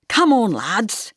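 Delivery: loud, slow, hearty rallying call; rally the lads cheerfully; buoyant call. Acted. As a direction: bell ringer rallying his mates. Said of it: "said George buoyantly".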